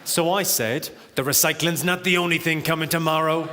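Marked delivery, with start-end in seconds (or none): 1.2-3.5 blaxploitation-style seductive purr; sexy voice. Pretend. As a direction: lay it on thick like a seventies smooth talker. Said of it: "That's my sexy voice".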